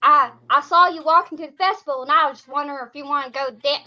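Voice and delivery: guy's Southern accent, mimicked; imitated backwoods accent. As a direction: mimic a backwoods Southern guy asking for a dance. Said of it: "he had the same accent".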